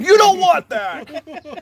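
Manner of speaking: furious, high-pitched, slow, bellowing yell. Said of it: "yells across, across the yard".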